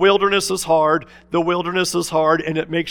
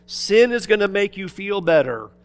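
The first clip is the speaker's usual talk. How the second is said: voicing Satan; 3 semitones higher, 5 dB louder than usual. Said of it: "Satan comes to us and says".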